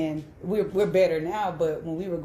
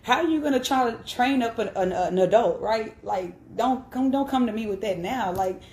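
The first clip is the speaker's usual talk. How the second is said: heated; 4 semitones higher than usual. Real, not acted. Daughter fuming at her father's late Bible advice, heated and raised. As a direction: let the indignation rise as you talk. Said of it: "it's heated now".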